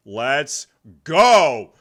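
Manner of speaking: loud excited cheer, pitch jumping up. Real, not acted. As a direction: cheer them on like a fan. Cheering at the stream.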